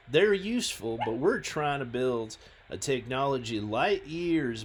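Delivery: lightly put-on southern accent; amateur southern US voice; bad southern accent. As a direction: carry on the reply in a loose southern accent. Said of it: "by replying in a southern accent".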